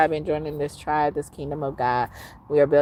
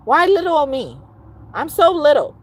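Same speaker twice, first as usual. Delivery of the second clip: mock whiny; 11 semitones higher, 7 dB louder than usual. Mock pleading to viewers.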